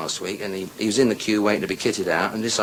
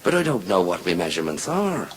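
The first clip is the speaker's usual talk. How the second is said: put-on lower-pitched Irish accent; Irish fella; 4 semitones lower than usual. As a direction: play a puzzled Irishman. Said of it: "Irish fella says".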